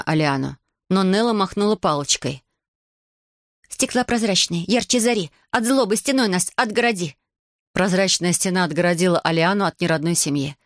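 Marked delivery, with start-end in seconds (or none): 3.7-7.2 spell casting. A narrator's reading. Witch casts a spell with wand.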